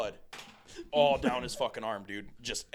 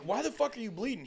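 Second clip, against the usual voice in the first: alarmed question; 8 semitones higher than usual. Retold or imitated. Alarmed question to bleeding friend.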